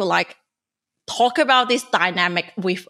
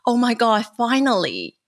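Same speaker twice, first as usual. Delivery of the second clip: mock relief; 3 semitones higher than usual. Woman recalling her friend finally listening, mildly relieved. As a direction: retell a relieved "at last" moment.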